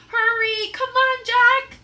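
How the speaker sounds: high, loud urgent call; calling back. Acted. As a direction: hurry him from afar. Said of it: "Annie called back to him".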